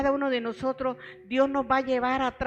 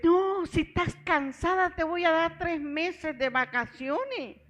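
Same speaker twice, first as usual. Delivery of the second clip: higher, sweet-talking boss voice; mock manager; 6 semitones higher than usual. Manager coaxing her to stay, mock sweet and high. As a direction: lightly mimic the boss's false kindness. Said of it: "Me dice".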